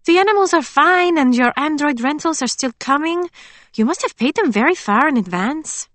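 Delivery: chatty friend reporting news; Emily's voice. A narrator's reading. Friend reporting on the farm, chatty.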